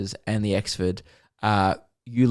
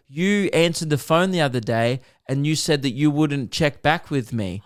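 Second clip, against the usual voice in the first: higher, accusing retelling; retold upset complaint; 5 semitones higher than usual. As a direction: imitate a mildly indignant caller. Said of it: "he was so upset".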